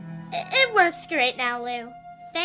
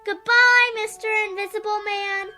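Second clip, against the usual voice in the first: playful farewell; 4 semitones higher, faster than usual. Acted. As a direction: humour a grown-up's pretend game. Child plays along with pretend game.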